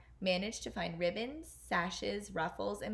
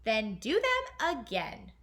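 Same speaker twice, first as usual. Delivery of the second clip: louder, slow, cold stepmother's snap; evil snap; 6 dB louder, slower than usual. Acted. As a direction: bite the words off slowly. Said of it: "snapped the evil woman".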